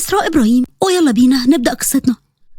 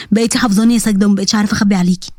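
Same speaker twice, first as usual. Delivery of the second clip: a lower, gentle uncle voice; lightly voiced uncle; 6 semitones lower, faster than usual. Uncle welcoming his niece home, lightly lowered voice. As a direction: greet her like a fond uncle.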